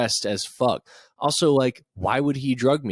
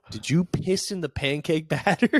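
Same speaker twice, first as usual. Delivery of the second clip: suspicious wife; 4 semitones higher than usual. Pretend. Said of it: "your wife every day ... being like".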